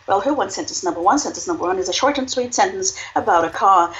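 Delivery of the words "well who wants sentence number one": brisk auctioneer patter; fast, rising auction call. Shown as a demonstration. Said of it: "you could sell it like this".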